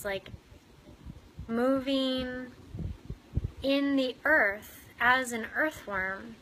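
unhurried meditation guide with long pauses; guided meditation. Real, not acted. Meditation leader inviting listeners into earthworm bodies in the soil, guided meditation. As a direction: guide them gently inward, leaving room to breathe.

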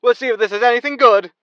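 sighing, high and loud weary giving in; resigned host. Acted. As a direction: sigh and give in like a tired showman.

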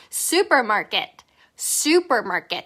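supermarket very slow, each syllable clear, falling; slow model supermarket. Shown as a demonstration. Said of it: "해보세요".

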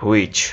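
"Which" said as hu-ich, lightly; correct pronunciation. Shown as a demonstration. Teacher confirming the right way, correct pronunciation. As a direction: model "Which" with a clear ch ending. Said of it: "এটাই সঠিক".

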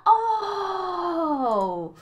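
loud pained cry out. Real, not acted. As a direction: cry out as you die. Dying in game.

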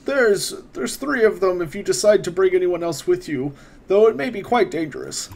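a hint of a courteous court wizard, unhurried; wizard NPC voice.

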